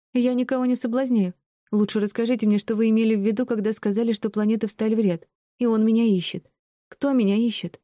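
high-pitched, insistent demand; indignant young heroine. A narrator's reading. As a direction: argue back in a high young woman's voice. Heroine argues with old woman.

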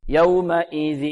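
"يومئذ" intoned with nasal sound wrongly begun at the hamza; nasalised hamza. Shown as a demonstration. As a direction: let the nose take over too early in "يومئذ". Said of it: "يبدأ من الهمزة أحيانا". (غنة مبكرة خاطئة في همزة "يومئذ")

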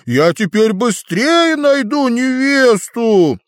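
высокий радостный дракон; ликовать, как дракон; восторженно. A narrator's reading. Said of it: "обезумевший от радости". (восторженно)

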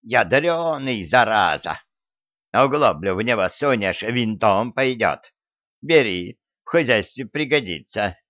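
lightly voiced old granny; a hint of a frail old woman. Old woman character speaks.

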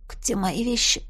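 hoarse, hushed question. A narrator's reading. Heroine missing her bag, asking hoarsely. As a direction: ask it with a voice gone husky. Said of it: "спросила я осипшим голосом".

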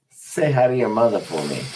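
put-on playful Boston accent, hi as "hoi"; mock Boston tough guy, quick. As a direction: throw a Boston jab at him. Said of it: "Oh, Boston".

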